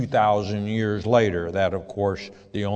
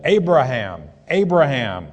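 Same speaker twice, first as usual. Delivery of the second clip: louder call of the name, twice; 4 semitones higher, 8 dB louder than usual. Acted. Angel calling down to Abraham from heaven, louder call.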